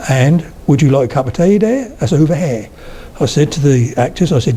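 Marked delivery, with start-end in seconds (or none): 0.7-2.7 broad Norfolk with open, unrounded vowels; Norfolk accent. Shown as a demonstration. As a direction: say "here" as one open "hair", Norfolk style.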